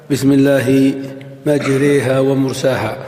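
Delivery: mild recitation of مجريها with imala; Quranic recitation. Shown as a demonstration. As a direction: recite the verse in tajweed style. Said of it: "في قوله تعالى".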